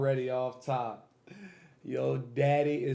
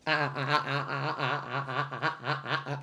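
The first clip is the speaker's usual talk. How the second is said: laughing stammer; 3 dB quieter than usual. Real, not acted. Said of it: "I'm stuttering".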